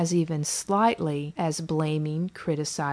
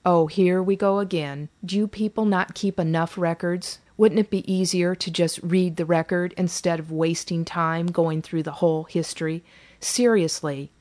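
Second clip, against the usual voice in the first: exasperated groaning. Acted. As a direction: groan it out, tired of repeating.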